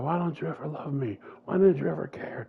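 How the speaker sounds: climbing pained plea breaking into a whisper; plead, then break into a whisper; anguished cry. Retold or imitated. Jalen pleading with Antonio before striking, anguished whisper.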